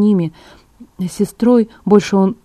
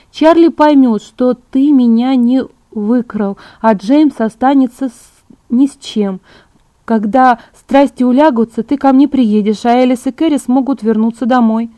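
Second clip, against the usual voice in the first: higher, emphatic coaxing with drawn-out words; lightly voiced Bella, persuasive; 5 semitones higher, 5 dB louder than usual. A narrator's reading. Bella bargains with Edward for a few days, persuasive. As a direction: win them over point by point.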